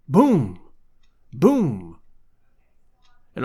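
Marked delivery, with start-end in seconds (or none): 0.1-2.0 imitated booms. A narrator's reading. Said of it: "heavy blows fell".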